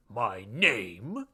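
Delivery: stately, ceremonial announcement; pompous formality. A narrator's reading. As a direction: begin a formal introduction with weight. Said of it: "in a formal tone".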